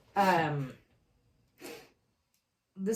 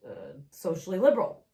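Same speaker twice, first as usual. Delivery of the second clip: Barack Obama impression; 3 semitones lower than usual. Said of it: "in the style of Barack Obama".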